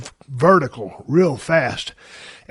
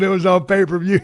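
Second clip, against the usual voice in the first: ordinary talk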